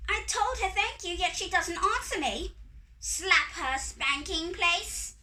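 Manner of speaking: high, loud fairy outrage; high-pitched scolding fairy; indignant fairy. A narrator's reading. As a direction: complain loudly in a high fairy voice. Fairies indignant at the silent doll.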